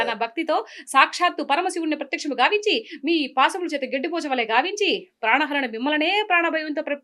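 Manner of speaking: lightly acted mythological hero's rebuttal; a touch of stagy indignation; Junior NTR. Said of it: "ఈ జూనియర్ NTR dialogue వచ్చా".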